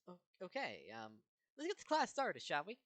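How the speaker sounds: shaky, squeaky nervous voice; nervous high voice. Acted. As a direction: nervously push the words out. Nervous sweating All Might.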